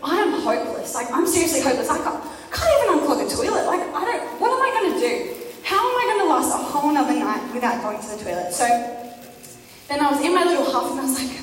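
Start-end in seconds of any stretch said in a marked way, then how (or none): 0.0-8.5 laughing despair. Retold or imitated. Retold despair over clogged toilet.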